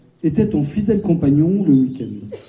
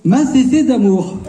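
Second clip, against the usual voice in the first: slow, higher burst of affection; carried away; 5 semitones higher, 3 dB louder than usual. Real, not acted. Father hailing his daughter at her wedding, carried away. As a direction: gush it out slowly, pitched up. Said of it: "Je m'emballe".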